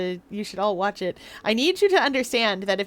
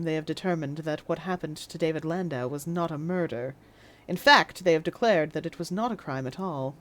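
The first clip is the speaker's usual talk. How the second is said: put-on stern judge in RP accent; dry, weary British judge; 4 semitones lower, 5 dB quieter than usual. Judge NPC addresses court.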